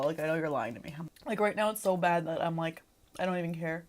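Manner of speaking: pained and subdued. Real, not acted. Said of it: "really in pain".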